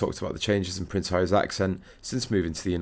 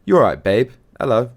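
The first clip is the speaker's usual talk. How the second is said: lively British greeting, higher and louder; 4 semitones higher, 7 dB louder than usual. Retold or imitated. British actress greets her podcast host, lively British. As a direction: imitate a British actress's chirpy hello. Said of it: "The British actress greeted Meghan saying".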